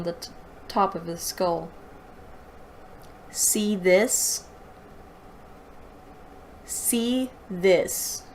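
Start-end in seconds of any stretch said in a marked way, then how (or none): 3.3-8.2 parroting the line in disbelief; mocking repeat. Reader parroting the villain's weak one-liner, mocking. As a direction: echo it back like it's absurd.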